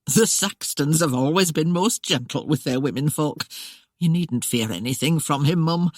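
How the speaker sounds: mild jovial reassurance; lightly voiced housekeeper, reassuring. Housekeeper reassuring the frightened bride, light chuckle in it. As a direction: ease her fears gently.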